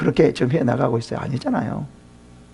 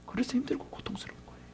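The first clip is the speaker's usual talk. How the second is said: whisper; 7 semitones higher, 20 dB quieter, faster than usual. Real, not acted. Preacher drops to emphatic whisper.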